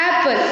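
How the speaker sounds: "Apple" with a brief first vowel; short, unstretched "Apple"; short sound. Shown as a demonstration. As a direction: say "Apple" quickly, falling at the end. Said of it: "read this apple in a short".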